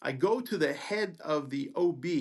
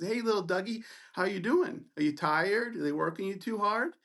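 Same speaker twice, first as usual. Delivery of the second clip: higher-pitched patronizing taunt; mocking; 5 semitones higher than usual. Resident taunting a student before his giggling group, mocking. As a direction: tease like talking down to a kid. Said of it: "he just continues to mock me".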